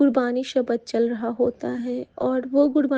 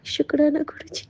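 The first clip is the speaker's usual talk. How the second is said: whispered thanks; 2 semitones higher than usual. Retold or imitated. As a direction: whisper "शुक्राना गुरु जी" with no voice. Voice heard from rose petals.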